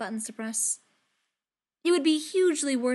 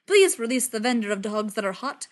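booming Thor voice; 5 semitones higher, 6 dB louder than usual. Acted. Thor's formal loud decree.

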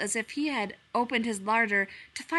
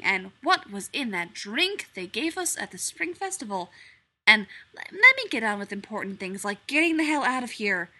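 higher, louder, sarcastic stranger; haughty strange animal; 4 semitones higher, 7 dB louder than usual. A narrator's reading. Strange animal mocking Pooh, higher and louder. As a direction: lord it over the little bear.

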